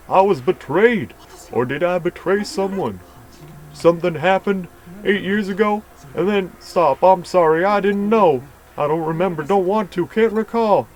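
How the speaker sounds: high, loud frantic rush of denials; panicked confusion. Acted. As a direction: spiral into frightened confusion. Confused patient in memory panic.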